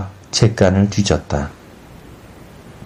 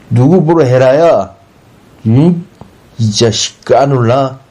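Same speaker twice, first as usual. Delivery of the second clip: high, louder scolding retort; angry threat; 5 semitones higher, 4 dB louder than usual. A narrator's reading. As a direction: take offence and threaten him. Offended retort threatening the neighbour. (발끈해서 을러대듯)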